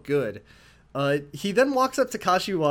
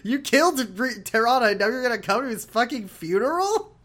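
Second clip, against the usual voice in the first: mock angry; 9 semitones higher, 5 dB louder than usual. Daigo yelling at Ryuji.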